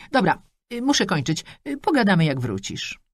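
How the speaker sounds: high, chatty mother rattling off wishes; a pushy mum beaming down the line; mother on the phone. Acted. Mother ends the call.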